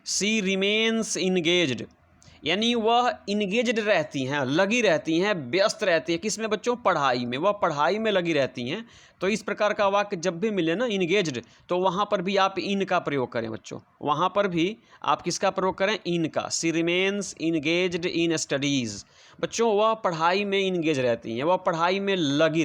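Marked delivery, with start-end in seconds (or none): 0.1-1.8 very slow, each word spaced out for the class; slow dictation. Shown as a demonstration. Teacher dictating example sentence. 16.5-19.1 very slow, each word spaced out for the class; slow dictation. Shown as a demonstration. Teacher dictating full sentence.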